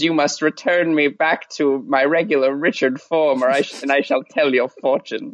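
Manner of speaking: a hint of a mysterious old man; lightly voiced mystic, slow and low. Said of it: "the only mysterious voice we know how to make".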